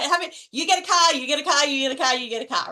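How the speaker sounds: a hint of Oprah's giveaway chant, fading; playful chant of you get a car, trailing off. Coach mimics Oprah's audience car giveaway, lightly voiced. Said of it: "Wasn't that an Oprah moment".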